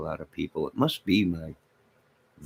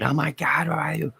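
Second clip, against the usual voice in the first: mock outrage; 8 semitones higher than usual. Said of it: "Somebody gets all mad".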